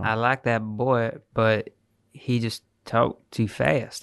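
slow, lightly put-on Southern accent; mock Southern accent. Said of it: "I don't know why I affected the accent".

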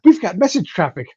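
high, loud, out of breath and urgent; panicked analyst blurting out the news; breathless alarm. Retold or imitated. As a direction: gasp it out like you ran the whole way to warn Pete. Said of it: "comes running up, breathless".

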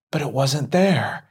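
ordinary delivery

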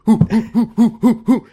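high, loud whooping with laughter; mock party whoop. David partying over his son, laughing high whoops. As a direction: whoop like you're popping party poppers.

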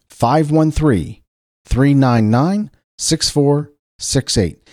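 slowly, number by number; slow and deliberate. Shown as a demonstration. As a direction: spell out each digit slowly. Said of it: "text me at five one three".

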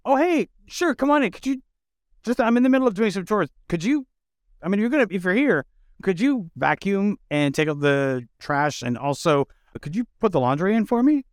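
very high, fast, syrupy host voice; overly sweet host. Pretend. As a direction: chirp it like a falsely sweet hostess. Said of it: "you were like".

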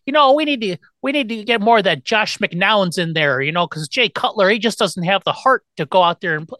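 Chicago caller. Retold or imitated. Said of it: "Or, or back in the day".

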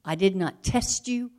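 tender voice of God. Acted. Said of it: "and he says".

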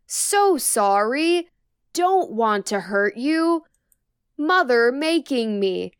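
slow, warped, lightly distorted monster voice. Retold or imitated. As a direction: drag the words out like a broken creature. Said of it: "in the most distorted, slowed voice".

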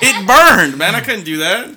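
laughing, hammed-up pain; laughing mock complaint. Retelling the grapefruit sting, laughing. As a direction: complain while cracking up. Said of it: "I was like".

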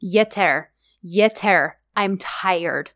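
sinking, resigned voice; acted weariness. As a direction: plead it as a tired, low retelling. Acted weary plea to the man.

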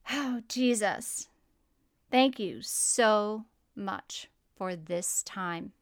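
slow, earnest prayer voice. Acted. Host praying over the listeners, slow earnest prayer. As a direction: pray it slowly over the listeners.

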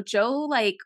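normal talking voice

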